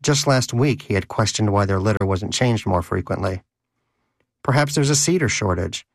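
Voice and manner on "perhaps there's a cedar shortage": sarcastic. Acted. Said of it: "he'd asked Danish sarcastically".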